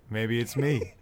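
playful mock riddle. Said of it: "we say".

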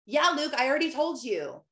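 mock her own snippy reply. Mother imitating her own snippy reply to her son Luke. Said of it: "like, a tone".

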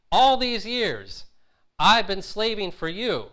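put-on bitter older brother venting at his father; angry complaint. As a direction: drag out each word like a wronged son. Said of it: "then his anger comes out".

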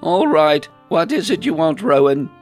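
loud, high challenge; suspicious. A narrator's reading. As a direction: demand the real reason, loudly and knowingly. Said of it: "suspicious look".

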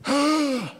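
preacher's heavy breath; big audible breath. Real, not acted. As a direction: gasp for air between preaching runs. Big breath mid-sermon.

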